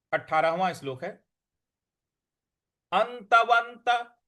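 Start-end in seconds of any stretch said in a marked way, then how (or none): 2.9-4.2 अंतवंत with the half न pressed hard, slowly; stress on half n. Shown as a demonstration. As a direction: hit the न in अंतवंत, drawn out. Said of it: "अ के बाद जो न है उस पर हमको आघात देना है".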